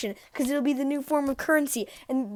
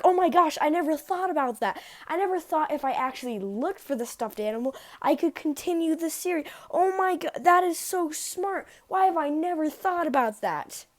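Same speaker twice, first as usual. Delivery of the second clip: mock amazement; 4 semitones higher than usual. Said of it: "And I'm like".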